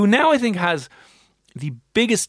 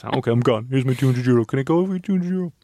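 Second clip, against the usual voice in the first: pleading tourist. Pretend. Caught tourist pleading at checkpoint.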